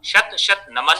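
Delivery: शत and नमन cut off at the last consonant; final vowels dropped. Shown as a demonstration. Teacher showing students' faulty halant endings, final vowels dropped. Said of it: "शत में भी हलंत लगाएंगे".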